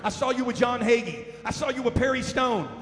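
gushing fan. Retold or imitated. Imitating a starstruck fan meeting the TV pastor, eager. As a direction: gush like a starstruck churchgoer. Fans gushing over a TV preacher.

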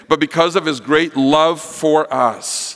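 slowed, each word weighed; slow and deliberate; slow emphatic reread. Shown as a demonstration. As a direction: linger on the line to stress it. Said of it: "Let me say that first part again".

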